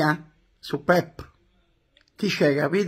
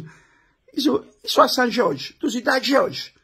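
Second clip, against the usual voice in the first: laughing; 5 semitones higher than usual. Real, not acted. Ride sul gioco di parole.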